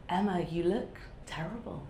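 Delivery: put-on a half-laughing, failed stab at a Brummy accent. Publisher on Zoom telling Emma she looks terrible, in a laughing, failed Brummy accent. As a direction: mimic the publisher in a weak Brummy accent, giggling. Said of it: "I'm trying to do a Brummy accent".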